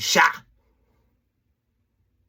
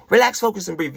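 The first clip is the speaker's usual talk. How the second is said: energetic cue; 4 semitones higher, 3 dB louder, faster than usual. Shown as a demonstration. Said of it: "we're gonna do it right now".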